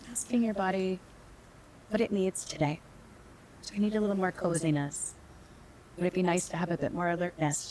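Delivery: unhurried meditation guide with long pauses; calm, measured meditation teacher; guided meditation. Real, not acted. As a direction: lead them gently inward, leaving space between phrases.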